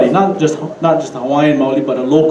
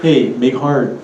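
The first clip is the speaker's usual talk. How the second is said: put-on mainland accent on Pidgin, full r in "hard"; outsider attempting Pidgin; 2 semitones lower, slower than usual. Alaskan guy trying to talk like locals, mainland-accented Pidgin. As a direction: imitate a newcomer's stiff Pidgin. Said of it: "he said".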